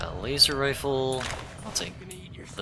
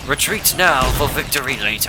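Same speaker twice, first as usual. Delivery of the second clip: loud, fleeing battle cry; excited yell; 5 semitones higher, 6 dB louder than usual. Real, not acted. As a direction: shout it while running away. Fleeing enemies, yelling.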